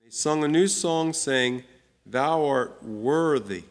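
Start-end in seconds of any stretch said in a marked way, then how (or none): 2.1-3.6 slow "Thou art worthy", leaning on "worthy"; stress on worthy. Shown as a demonstration. Bible teacher reading to class, stressing "worthy". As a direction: draw out "worthy" with a falling weight. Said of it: "I emphasize that word worthy on purpose".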